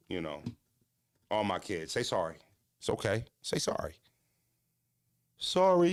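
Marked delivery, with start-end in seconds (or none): 1.9-3.9 gentle fatherly coaxing. Retold or imitated. Father telling his kids to apologize, soft and gentle. 5.4-5.9 put-on childlike sorry. Voicing child apologizing.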